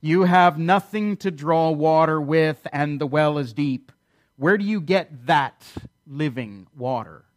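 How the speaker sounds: understated cynical challenge; sarcastic. Acted. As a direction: spell it out with mild sarcasm. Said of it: "It's hard to miss her sarcasm here".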